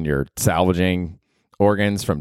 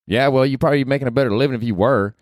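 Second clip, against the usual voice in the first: much higher, brash redneck woman; Ruth from Ozark; 5 semitones higher, faster than usual. Acted. Podcaster voicing Ruth, cursing at him, brash and high. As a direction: snap it like a foul-mouthed hillbilly girl.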